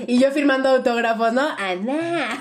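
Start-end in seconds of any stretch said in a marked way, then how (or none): 1.6-2.3 laughing imitation of "Ana" said with a falling fourth tone; playful fourth-tone "Ana" like fans shouting her name; fans calling Ana. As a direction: call out "Ana" the Chinese way, dropping sharply on the last syllable. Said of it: "Cuarto tono".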